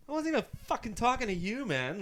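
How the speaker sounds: high, loud indignant comeback; re-enacted outraged protest; retold angry retort. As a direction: snap back at a heckler, retelling it. Acted angry retort to heckler.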